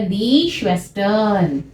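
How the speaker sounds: slow die Schwestern, final n sounded; German plural. Shown as a demonstration. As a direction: say Schwestern with the n clearly. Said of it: "spelling में एन extra हो जाएगा".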